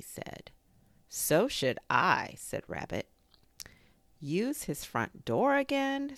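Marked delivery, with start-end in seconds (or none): 1.1-2.3 slow, stressed "So should I"; emphatic agreement. A narrator's reading. Rabbit worried for his front door, emphatic "So should I". 4.2-6.2 high, slow astonished question; incredulous echo. A narrator's reading. Christopher Robin hearing Pooh's fear, incredulous question.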